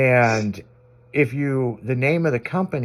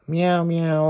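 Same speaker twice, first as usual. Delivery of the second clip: imitated meowing; 4 semitones higher than usual. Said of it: "like that".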